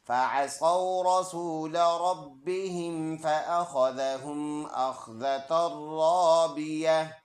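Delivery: slow, measured verse recitation. Acted. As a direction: recite the whole verse smoothly. (धीमी तिलावत)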